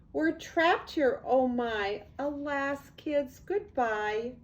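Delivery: hammed-up teacher wailing in fright; teacher stranded on island cries out in panic; panicked cry. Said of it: "Miss Lila Greer started to scream".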